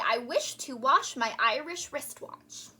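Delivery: slow, careful tongue twister; deliberate diction drill. Shown as a demonstration. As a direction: articulate each word slowly. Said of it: "And say".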